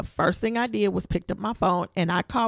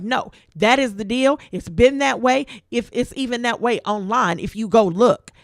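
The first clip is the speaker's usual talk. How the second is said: agent's voice pushed louder; retold loud agent; 3 semitones higher, 6 dB louder than usual. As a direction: play the pushy agent raising his voice. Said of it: "he's getting loud at this point".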